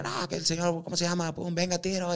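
a hint of a stadium announcer; hype man. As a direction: pump the crowd up like an MC. Animator hyping shooter in stadium.

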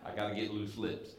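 talking around a ping pong ball; ball in mouth. Real, not acted. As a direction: speak with a ball in your mouth. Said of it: "the hard part is talking with the ball in my mouth".

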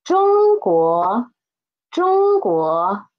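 中国 said slowly and clearly, Zhōngguó, each tone marked; teacher models 中国 for the class to repeat; 示范朗读; clear model reading. Shown as a demonstration. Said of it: "read after me please".

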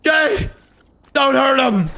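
mock-distressed plea. Captive begging captor to spare officer, pleading cry. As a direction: beg your captor in hammed-up alarm.

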